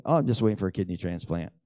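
breezy, offhand mock quote; mock casual. Mocking how Dave answered a friendly hello, breezy and offhand. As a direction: toss it off like small talk. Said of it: "Who says that?".

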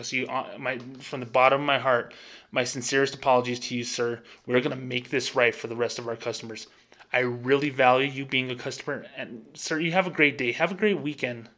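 lightly put-on sincere apology; a touch of scripted customer-service sincerity; fake bank voice. Shown as a demonstration. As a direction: politely wrap up a bank call, faking it slightly. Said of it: "Do I sound fake?".

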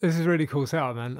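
Fallout bartender ghoul voice. Acted. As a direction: slip into the wasteland ghoul. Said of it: "I'll drop my ghoul voice for now".

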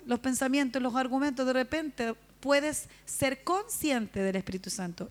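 slow, deliberate preaching cadence; slow emphatic preaching. Acted. Preacher guiding the women toward the Spirit, slow and emphatic. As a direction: lay out each phrase slowly and with weight.

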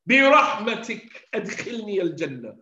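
imitated desperate plea, loud and high; yelling out. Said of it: "and he yells out, he calls out".

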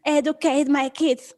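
huffy entitled mom complaining about Disney; mock Karen. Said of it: "all the Karens in the world are saying".

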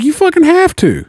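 high insistent yell; buddy shouting in mock anger; retold shout. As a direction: bark the order at him.

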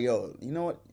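low, restrained voice; trying to stay calm. Retold or imitated. Man trying to stay calm with her in his face, restrained. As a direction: hold the irritation down. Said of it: "I'm trying to keep myself calm".

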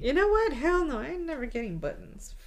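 loud, high defiant refusal. Pretend. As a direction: belt out a flat refusal. Refusing the Other Mother loudly.

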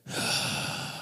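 soft, breathy mock gasp of shock; acted speechless sigh; stunned breath. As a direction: let out an overwhelmed breath. Imitating Joseph seeing his brothers.

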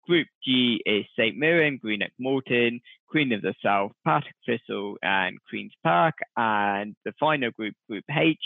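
a slight hint of a TV sports announcer reading the draw. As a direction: read the group draw like a mild Sky Sports announcer. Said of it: "tried to put on The Voice".

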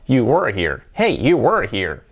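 "were" as one low syllable "wur"; single-syllable were. Shown as a demonstration. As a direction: glide through "were" as W straight into R. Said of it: "la misma sílaba". ("were" en una sola sílaba, tono bajo)

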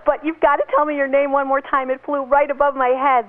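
friendly compliment and ask. Shown as a demonstration. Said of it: "if you say".

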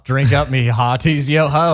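pirate voice. Shown as a demonstration. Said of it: "in Pirates of the Caribbean".

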